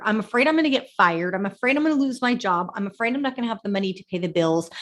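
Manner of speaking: half-acted anxious rambling about job and bills; mock worried voice. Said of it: "stress can come from fear".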